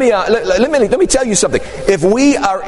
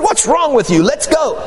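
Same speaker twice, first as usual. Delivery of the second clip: higher, pushy taunt at a scared friend; impatient urging; 5 semitones higher than usual. Retold or imitated. Young man to nervous friend, impatient higher urging. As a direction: egg him on, impatient.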